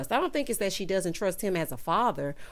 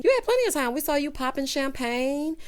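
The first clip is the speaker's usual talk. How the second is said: heated retort; 6 semitones higher than usual. Real, not acted. Scolding the character heatedly.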